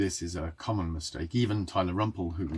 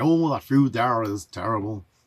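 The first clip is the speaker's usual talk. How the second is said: booming, very loud put-on American accent; 4 semitones higher, 8 dB louder than usual. Quoting Americans complaining about British food, in a put-on American accent. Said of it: "that's supposed to be an American accent".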